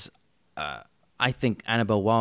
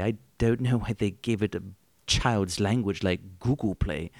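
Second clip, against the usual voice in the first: lightly voiced genteel English author, unhurried; a hint of a polite old British gentleman plugging the show; Ian Fleming. Ian Fleming praising the podcast hosts to listeners, in a lightly voiced genteel British manner. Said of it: "Ian Fleming's in the house".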